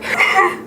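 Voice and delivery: short, high mock sob; brief put-on crying sound; imitated crying. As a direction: act out bursting into tears. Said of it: "I started crying".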